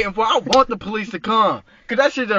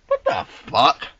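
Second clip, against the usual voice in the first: slow, loud exasperation; exasperated; 4 dB louder, much slower than usual. Real, not acted. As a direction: drag it out, fed up and loud. Exasperated at neighbor.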